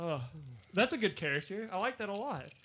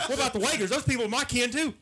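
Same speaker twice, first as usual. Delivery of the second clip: higher-pitched Southern plea, laughter creeping in; Southern redneck; 4 semitones higher, faster than usual. Acted. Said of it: "A redneck that's really up to date".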